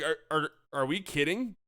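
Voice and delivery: a hint of last night's anger; incredulous retelling. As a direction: replay your own outrage. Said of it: "I was like".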